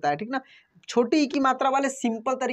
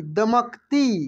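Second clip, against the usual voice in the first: a bit slow; much slower than usual. Shown as a demonstration. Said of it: "कैसे पढ़ेंगे?".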